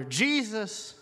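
firmer plea at speaking volume. Retold or imitated. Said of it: "And he gets louder".

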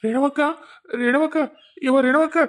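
urgent repeated call, rising at the end. Acted. Villager hurrying to Renavakka with news, calling out. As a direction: call out for a neighbour.

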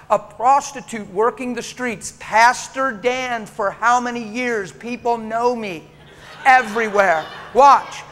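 loud, slow, laughing buildup; loud, slow, amused preaching climax; excited preaching. Real, not acted.

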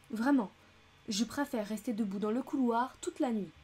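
put-on frantic elderly lady; breathless American lady. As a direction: refuse at the top of her voice. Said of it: "s'écria-t-elle hors d'haleine".

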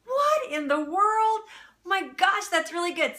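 high, loud, drawn-out cry of delight; amazed exclamation. Retold or imitated. To her friend after tasting the kraut, high excited exclaim. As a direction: retell the first bite with over-the-top amazement. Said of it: "And I was like".

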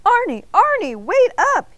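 loud, high call of Arnie's name; yelling after him. A narrator's reading. Mister Bing running after Arnie, yelling loud and high. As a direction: shout after him to stop. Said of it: "yelled Mister Bing".

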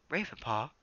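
calm but worried; calm Bluestar. Acted. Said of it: "The she-cat spoke calmly".

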